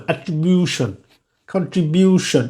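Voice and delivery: "কন্ট্রিবিউশন" with no puff on the T; unaspirated T. Shown as a demonstration. Teacher repeating examples for learners, unaspirated T in "কন্ট্রিবিউশন". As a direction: stress BYU, keep T unaspirated in "অ্যাট্রিবিউশন". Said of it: "এই টিটা কিন্তু aspiration".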